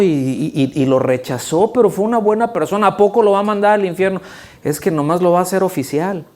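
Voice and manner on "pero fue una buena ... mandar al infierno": fast, higher protesting voice; mock objection. Preacher voicing a skeptic, fast and higher. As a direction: argue the other side quickly.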